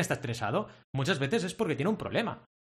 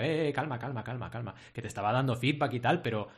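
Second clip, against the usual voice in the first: softened reassurance; 2 semitones lower than usual. Retold or imitated. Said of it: "lo suavicé".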